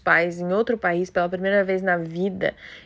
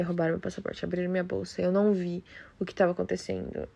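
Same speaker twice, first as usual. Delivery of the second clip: retold crying plea; 8 dB quieter than usual. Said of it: "E eu chorando em prantos".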